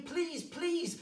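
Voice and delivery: loud, high frantic pleading; urgent cries for mercy; desperate begging. Acted. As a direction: beg for your life. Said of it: "he's begging at her".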